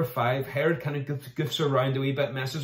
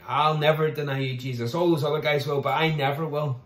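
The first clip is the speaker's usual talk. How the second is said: cocky; 2 semitones higher, 3 dB louder than usual. Retold or imitated. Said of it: "you see Peter getting cocky".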